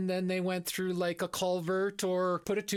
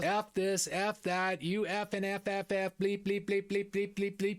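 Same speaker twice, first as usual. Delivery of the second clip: self-censored rant. Retold or imitated. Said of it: "beaking off for the entire time".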